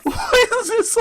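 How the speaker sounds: high-pitched laughter through words; laughing hard. Real, not acted. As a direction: crack up mid-question. Cracking up at superstition.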